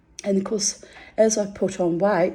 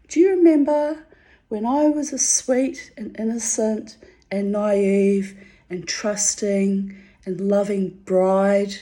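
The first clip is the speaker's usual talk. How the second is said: sarcastic sweet reminder; 4 semitones higher than usual. Retold or imitated. Mocking her husband with old grudge.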